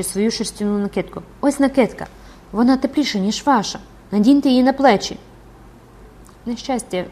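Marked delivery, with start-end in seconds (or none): 1.4-5.2 pitying coaxing. Acted. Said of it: "теж пройнята жалем".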